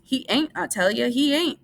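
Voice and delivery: high, desperate denial; Lenny with hands over ears, crying out. A narrator's reading. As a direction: cry it out in despair. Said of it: "he cried".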